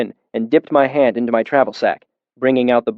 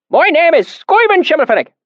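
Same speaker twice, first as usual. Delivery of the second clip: put-on deep valley accent; 4 dB louder than usual. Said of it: "his accent so thick and oily".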